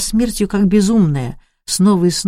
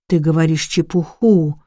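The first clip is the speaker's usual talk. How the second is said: ordinary delivery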